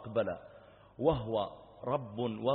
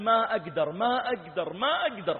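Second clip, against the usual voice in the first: imitated tearful pleading; 7 semitones higher, 5 dB louder than usual. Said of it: "فجعل يبكي ويقول".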